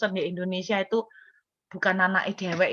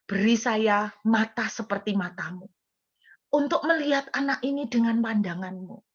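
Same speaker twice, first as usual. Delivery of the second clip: retold prayer. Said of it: "saya sampai ngomong gini".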